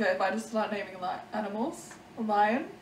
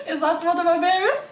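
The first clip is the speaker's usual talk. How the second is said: high, drawn-out voice through giggles; mock-plaintive high wail, laughing; berries guy; 7 semitones higher than usual. Friend teasing with the berries guy's voice, high and giggly. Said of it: "This is the berries guy".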